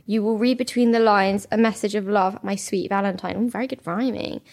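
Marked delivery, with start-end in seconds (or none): 0.0-3.3 reading cheesy love lyrics aloud, lightly sung; hint of a crooning serenade; mock serenade reading. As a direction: read the valentine lyrics as a half-hearted croon. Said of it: "we're gonna have to read this out".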